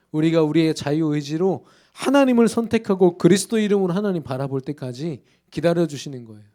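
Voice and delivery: ordinary talk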